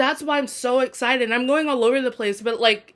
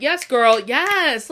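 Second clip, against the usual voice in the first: cheering her on; 5 dB louder, much slower than usual. Real, not acted. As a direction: egg her on like a friend. Cheering Annabeth's comeback.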